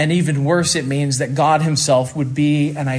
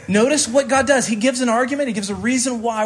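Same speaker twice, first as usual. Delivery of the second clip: raised emphatic preaching; 6 semitones higher, faster than usual. Real, not acted. Preacher raises pitch to stress.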